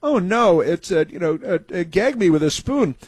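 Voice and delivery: a host mocking an anchor in a lightly put-on Valley Girl voice. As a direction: tease her with a hint of Valley Girl talk. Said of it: "Valley Girl stuff".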